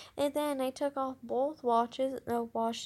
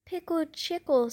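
gleeful; 6 semitones higher, 6 dB louder than usual. Acted. Judy teasing her brother.

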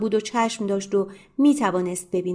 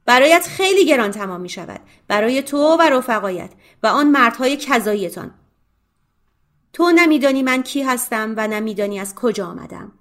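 تهدید بلند و سنگین; با لحنی تهدیدآمیز بترسانش; threatening; 3 semitones higher, 5 dB louder than usual. Acted. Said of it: "تهدید کرد". (تهدیدی بلند و خشمگین)

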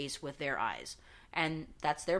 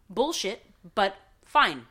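exasperated; 8 dB louder, slower than usual. Retold or imitated. Venting about DMV fee.

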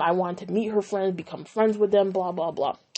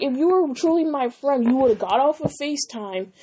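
indignant retelling, pitched up at the start; raised-pitch reproach, easing as it goes; retold confrontation; 5 semitones higher, 3 dB louder than usual. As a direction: reenact telling a friend off.

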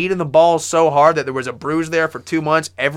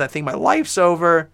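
voice cracking; 2 semitones higher than usual. Real, not acted. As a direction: voice cracks on the words. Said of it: "My voice just cracked".

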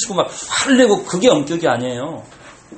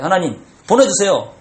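sample prayer. Shown as a demonstration. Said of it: "이렇게".

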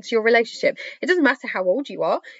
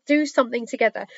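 hoarse, worn voice losing strength; voice giving out; 2 semitones higher, faster than usual. Real, not acted. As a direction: talk through a tiring throat. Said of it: "Sorry, I'm losing my voice".

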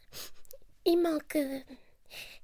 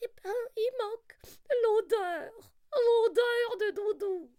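pleurnichant. Acted. Lapin pleure encore.

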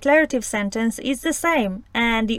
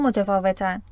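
ordinary talk, nothing marked

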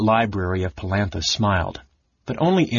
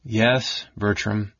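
soothing; much slower than usual. Acted. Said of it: "Astinus said soothingly".

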